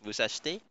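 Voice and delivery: "achetez" with the middle E dropped; silent middle E. Shown as a demonstration. Teacher showing the shortcut, middle E left silent in "achetez". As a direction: run "achetez" together as ash-tay. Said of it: "di ko na pinapronounce yung inito".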